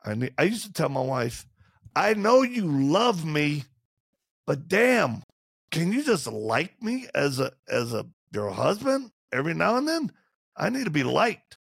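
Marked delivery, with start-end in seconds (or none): 2.0-11.6 pleading husband. Retold or imitated. Pleading to wife.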